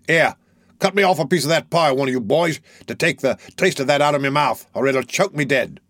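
gruff Sikes. Acted. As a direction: bark the order at the boys. Sikes orders the boys.

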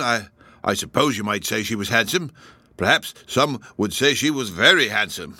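nervous constable. Acted. Constable answering questions.

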